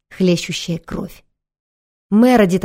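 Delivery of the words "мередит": calling a wounded friend, desperate; desperate cry. Acted. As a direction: cry out in despair. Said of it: "отчаянно закричала она".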